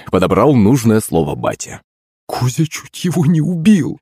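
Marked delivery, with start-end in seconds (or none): 2.3-4.0 mother's high, startled gasp of a line; gasped shock. A narrator's reading. Mother aghast at the near killing, high startled gasp. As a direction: gasp it out in alarm, pitched well up. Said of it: "ахнула маман".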